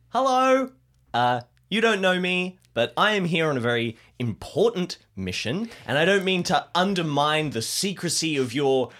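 high, chirpy and overly polite; Alistair's eager voice. Acted. Player's character greets the robed cult eagerly, high and chirpy. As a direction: announce yourself brightly to strangers.

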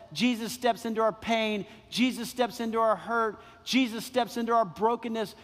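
preacher's rhythmic stress on "our". Acted. Preacher's repeated emphatic refrain.

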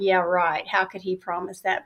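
quiet sarcastic disbelief; sarcastic doubt. Retold or imitated. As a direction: dismiss it drily. Sceptical inner thought.

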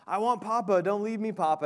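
mock upset toddler pleading; emotional child. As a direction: plead like a child being left, lightly acted. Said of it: "he starts to get emotional and says".

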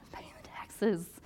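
slow, weary give-in ending in a sighing whisper; just pay it, with a tired sigh; resigned shrug. Retold or imitated. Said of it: "those that are like".

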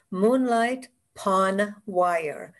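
title said slowly and clearly; slow and deliberate. Shown as a demonstration. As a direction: spell out each word of the title. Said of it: "I'll say it and then spell it out".

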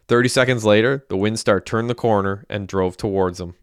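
steady audiobook reading voice; story narration. A narrator's reading. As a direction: read the novel chapter to listeners. Author reads his novel aloud.

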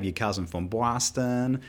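slow, put-on Boston accent. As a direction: imitate a Boston accent, drawing it out. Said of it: "That's a great Boston accent".

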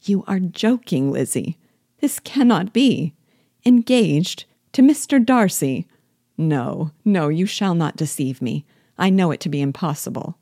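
Jane refusing to believe the news; incredulous. Acted. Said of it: "she was absolutely incredulous here".

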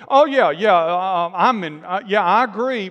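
loud, hasty mock agreement; over-eager agreement. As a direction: agree loudly to fit in. Acting out eager compliance with culture.

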